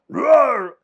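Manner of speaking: loud, high monster roar; a beast pouncing on its prey; huge fiery dragon roar. Acted. Monster attacks in radio drama.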